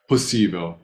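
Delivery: "Possível" with the first O almost "uh"; unstressed O as uh. Shown as a demonstration. Teacher demonstrating the reduced O. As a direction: swallow the O in "Possível". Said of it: "It sounds like a uh almost".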